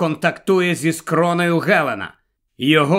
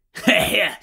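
chuckle; 2 semitones higher than usual. Acted. Grandpa chuckles while baiting Galen.

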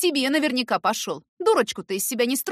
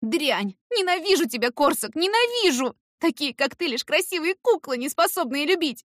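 high, loud, furious tirade; much higher, shouting through tears; hateful outburst; 8 semitones higher, 5 dB louder than usual. A narrator's reading. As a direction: spit out years of hatred. Irka crying out her hatred.

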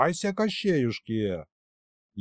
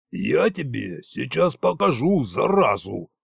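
a touch of hurt pride in the threat; threaten, slightly stung; mildly offended. A narrator's reading. Tsar threatens the wizard, mildly offended. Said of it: "слегка обиделся Кощей".

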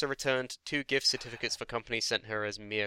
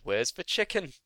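mock complaining customer; 4 semitones higher than usual. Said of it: "I came home and said".

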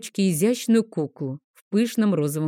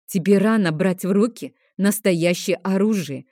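sharp retort; 3 dB louder than usual. Acted. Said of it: "слишком резко бросила я".

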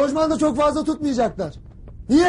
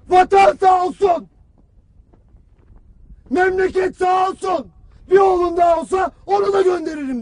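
grieving father's words; 3 semitones higher, 4 dB louder than usual. Retold or imitated. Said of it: "ağzında bir cümle, tek bir cümle".

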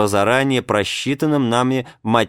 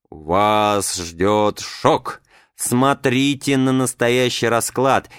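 creepy drawn-out voice; slower than usual. Retold or imitated. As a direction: drag it out like a horror host. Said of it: "тяну жутким голосом".

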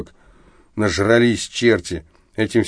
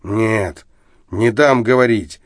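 put-on drunken cutting off; slower than usual. Drunk Arestov cutting his friend off with bluster. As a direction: cut him off with drunken bluster. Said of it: "с пьяным наскоком оборвал".

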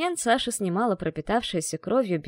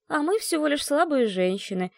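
mock sob; 6 semitones higher than usual. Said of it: "расстроенно всхлипнула я".

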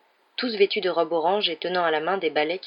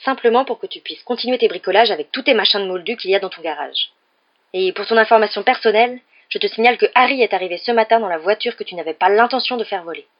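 loud, raised-pitch tirade; indignant scolding; 4 semitones higher, 7 dB louder than usual. A narrator's reading. Wife berating her husband about the car, indignant. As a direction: drive each accusation home forcefully. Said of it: "s'écria madame Weasley".

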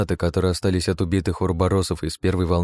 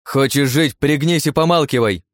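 loud, higher, cutting; harsh order; 7 semitones higher, 5 dB louder than usual. Acted. Anna to Sergei: loud harsh order. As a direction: shut him up.

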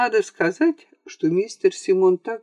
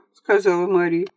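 usual speaking voice

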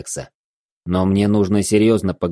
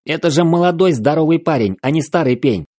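explosive rage; 7 semitones higher than usual. A narrator's reading. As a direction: keep raging in disbelief. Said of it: "взорвался Алекс".

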